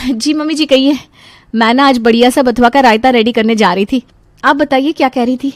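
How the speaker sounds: lightly voiced, willing daughter-in-law; obliging daughter-in-law. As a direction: report dutifully to mother-in-law.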